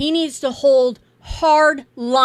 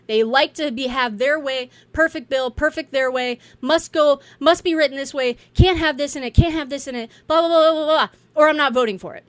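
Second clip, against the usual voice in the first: mocking hardliners; 2 semitones higher, 4 dB louder than usual. Mocking Freedom Caucus members who demand a perfect bill, louder parody. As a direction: parody their endless conditions.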